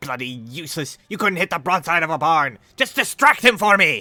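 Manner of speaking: very loud, high-pitched shouting. Voicing a wererat who shouts at the hobos: shouting. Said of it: "shouts at them, and he says".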